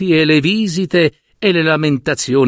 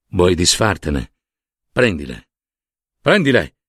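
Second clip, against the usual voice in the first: low, coaxing encouragement; reassuring; 8 semitones lower than usual. Acted. Monsignor urging Don Arturo to take the bills, reassuring. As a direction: coax him gently, pitch mostly dropped. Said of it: "s'affrettò a rassicurarlo Monsignor Landolina".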